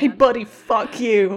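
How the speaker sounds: slow, laughing mock fury; laughing curse. Real, not acted. To her friend, a laughing mock-angry curse. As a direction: swear at the world through a laugh.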